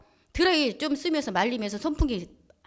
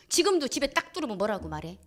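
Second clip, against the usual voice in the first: usual speaking voice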